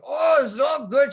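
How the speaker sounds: high, loud, slow reassurance; sweet operator. Retold or imitated. Operator telling the sailor all is fine, high and slow.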